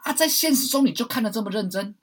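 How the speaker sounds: harsh loud whisper. Real, not acted. Teasing the listener about real life, whispered. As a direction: hiss it like a pointed aside. Mock scolding aside.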